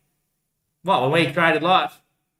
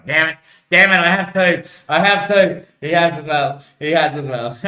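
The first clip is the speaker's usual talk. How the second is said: frustrated outburst; 4 semitones higher, 7 dB louder than usual. Acted.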